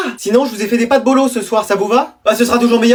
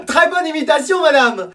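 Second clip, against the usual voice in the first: excited cheer; 5 semitones higher than usual. Acted. Pupils cheer the teacher.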